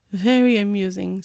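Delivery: sour sarcastic; unamused sarcasm; dark. Acted. Nick after the joke, dark sarcasm.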